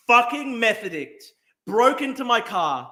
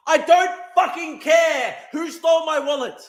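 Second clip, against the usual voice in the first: angry shout; 5 semitones higher, 4 dB louder than usual. Real, not acted. Angry rant at chat.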